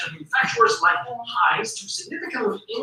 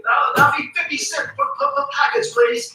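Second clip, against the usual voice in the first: a badly imitated Australian shop clerk accent; failed Australian accent. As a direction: have a clumsy go at Australian. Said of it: "That's my failed Australian accent".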